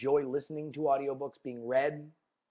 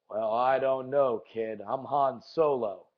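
slow, lower mock Han drawl; a hammed-up Han Solo; lightly voiced cocky smuggler; bad Han Solo impression; 3 semitones lower, slower than usual. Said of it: "the secret to all my impressions".

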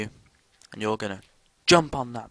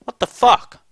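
high, loud disbelieving outburst; shocked yell; 14 semitones higher, 14 dB louder, slower than usual. Real, not acted. Player baffled by the game, shocked yelling. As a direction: cry out in baffled alarm.

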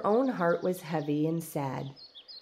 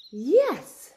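high, loud burst of glee; a gleeful yes, pitched up high and loud; 9 semitones higher, 6 dB louder than usual. Acted. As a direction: cry it out with delight. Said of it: "she said with glee".

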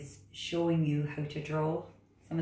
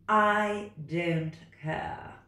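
bossy cat; 3 semitones higher, 4 dB louder, much slower than usual. Acted. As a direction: order the frog about like a know-it-all cat. Cat character.

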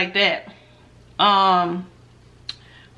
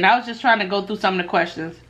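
sniffling; faster than usual. Real, not acted. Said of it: "I'm sorry, I'm sniffling".

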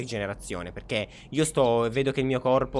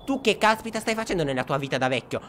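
loud, raised-pitch telling-off; exasperated scolding; 5 semitones higher, 3 dB louder than usual. Real, not acted. Rimprovera il nonno addormentato. (rimprovero esasperato, sempre più forte)

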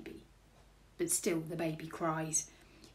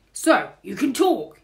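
loud, higher burglar exclamation; surprised, booming burglar; burglar character; 5 semitones higher, 12 dB louder than usual. A narrator's reading. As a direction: exclaim it to the baby. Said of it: "he says".

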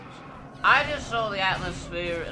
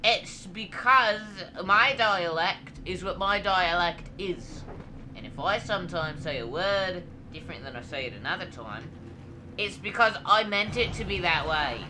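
indignant; 3 semitones higher than usual. Acted. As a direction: stand firm on your dialect. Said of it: "if you say that I don't do my voice right".

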